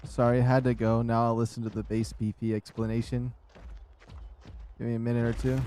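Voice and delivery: winded, catching breath. Real, not acted. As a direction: speak short of breath. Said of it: "I was out of breath while I was saying it".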